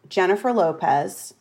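warm up into Aussie vowels; Australian accent. Shown as a demonstration. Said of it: "This is how I get into it".

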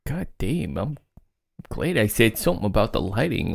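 hushed aside to a companion; whispering. Acted. Chester confides in Jameson about the lighting, hushed. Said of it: "whispers to Jameson".

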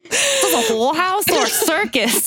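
a shaky attempt at an Aussie put-down; failed Australian accent. A mock Australian accent that she gives up on. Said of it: "I can't accent right now".

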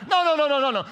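loud, high, rapid no's; preacher shouting down the idea; emphatic no. Real, not acted. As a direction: cut the idea off loudly.

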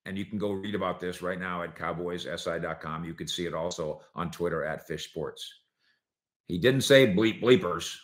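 ordinary talk

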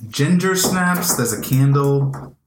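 slow, savoring scene-setting; cozy slow voice. Acted. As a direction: linger on each word cozily.

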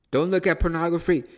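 loud, high barked command "Don't look at pornography"; stern commandment. Acted. The law thunders a prohibition at the believer, loud and high. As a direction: voice the law laying down a rule.

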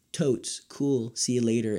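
put-on like a casual American teen brushing someone off; mock American slang. Mimicking Americans to contrast with proper British talk, lightly mocking. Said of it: "In America, all of the dialogue is like".

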